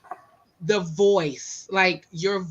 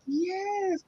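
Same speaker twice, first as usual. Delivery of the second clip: excited yes; 10 semitones higher, 7 dB quieter than usual. Retold or imitated. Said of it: "And I was like".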